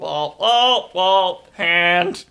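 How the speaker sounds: panting around a hot bite; mumbling through burning food; mouth full of hot food. Real, not acted. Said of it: "Hot, hot, hot".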